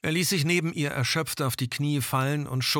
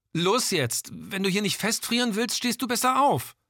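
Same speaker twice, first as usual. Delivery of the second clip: higher, urgent shout into the wind; urgent call; 9 semitones higher than usual. Acted. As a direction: push him to get up now. Gilda urges Ian to stand.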